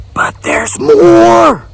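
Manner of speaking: high, slow, shouted reveal; big reveal shout. Acted. Infomercial reveal.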